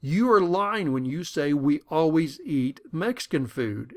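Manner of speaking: slow, indignant denial; mildly defensive retort. Retold or imitated. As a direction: insist you're being lied about. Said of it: "comes back very defensively".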